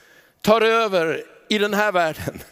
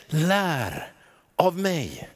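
gentle Jesus; much slower than usual. Acted. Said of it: "Då säger Jesus".

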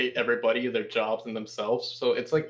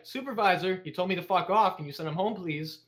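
mock tattling; 5 semitones higher than usual. Fake victim telling on coworker.

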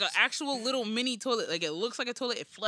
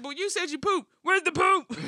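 higher voice rising to a loud cry; mock exasperated demand; 8 semitones higher, 7 dB louder than usual. Parent hunting for the child's poop, mock exasperated cry. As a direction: act out a baffled, louder-and-louder question. Acts out exchange over missing poop.

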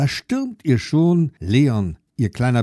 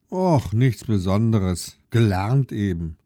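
bored; 2 semitones lower than usual. Acted. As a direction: shrug it off, unimpressed. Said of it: "sagt Lilly gelangweilt".

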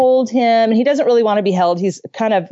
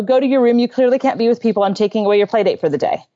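stern parent laying down a punishment, lightly acted; a hint of a punishing parent; mock stern parent; 3 semitones higher, faster than usual. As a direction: scold him briskly, with a touch of sternness. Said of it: "or to say".

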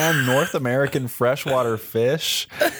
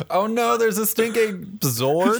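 mock alarm; 9 semitones higher than usual. Mock alarm at Stink Ape.

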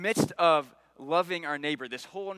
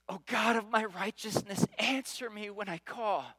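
pleading; 4 semitones higher than usual. Shown as a demonstration. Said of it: "He is pleading".

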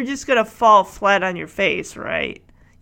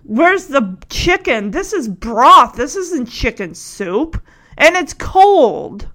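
picky complaint; slower than usual. Retold or imitated. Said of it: "picking at it".

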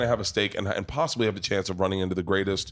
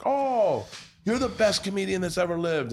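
imitating gushing admirer; 9 semitones higher than usual. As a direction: gush it in a raised, put-on voice. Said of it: "And he's like".

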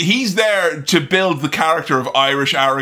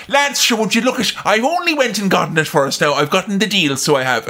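excited Irish brogue, pitched up then easing down; broad Irish accent; 3 semitones higher than usual. Retold or imitated. Contestant back with the lads, broad Irish accent. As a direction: crow in a lively Irish accent. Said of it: "Irish accent was at odds with".

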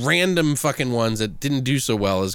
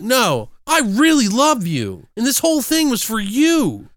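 hammed-up heartfelt dad; 7 semitones higher than usual. Dad confessing love to his daughter in a cringy scene, hammed-up heartfelt. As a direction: lay on the movie-dad sincerity, drawing it out.

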